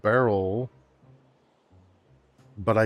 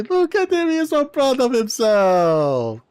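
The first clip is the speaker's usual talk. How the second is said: high, loud cooing delight; soaring singsong fawning; mock gushing; 8 dB louder than usual. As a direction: gush like over an adorable pet. Gushing over happy game creature.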